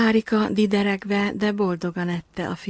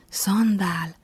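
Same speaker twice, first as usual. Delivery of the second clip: Szandál? asked in mild disbelief; a little girl taken aback by the word Szandál?; shocked question. Acted. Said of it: "döbbent meg Piroska". (döbbenten kérdezve: Szandál?)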